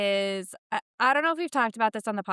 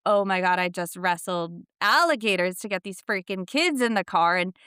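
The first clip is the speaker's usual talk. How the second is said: louder exasperated rant; venting about a chaotic school run; stressed-out mock complaint; frazzled mom; 4 dB louder than usual. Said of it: "when I'm like".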